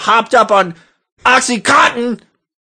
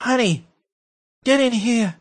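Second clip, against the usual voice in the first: Rush Limbaugh voice; 4 semitones higher, 6 dB quieter than usual. Retold or imitated. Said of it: "let me do a Rush Limbaugh voice here".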